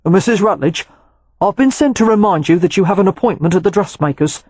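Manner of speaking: lightly voiced reserved valet delivering a reminder; a hint of a dutiful watchdog, formal and level; Valentine, polite messenger.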